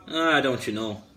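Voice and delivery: put-on Midwestern accent; light mock-Midwestern accent. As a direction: say it like a folksy Midwesterner. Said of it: "That's like your Midwestern accent".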